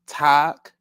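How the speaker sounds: "talk" as an open "tahk", set apart; emphasized A. Shown as a demonstration. Breaking the name down by syllable, emphasized A. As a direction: lean on the AH in "talk". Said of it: "you emphasize the A".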